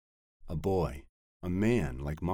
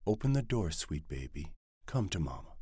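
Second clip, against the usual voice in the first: tender coaxing. Acted. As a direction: draw him in gently. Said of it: "gravity of her elocution".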